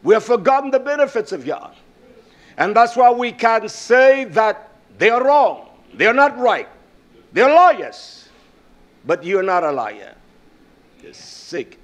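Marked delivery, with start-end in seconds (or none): 2.6-8.3 loud, drawn-out preaching accusation; slow, punching preacher delivery; forceful preaching. Real, not acted. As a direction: preach it hard, swelling on each phrase.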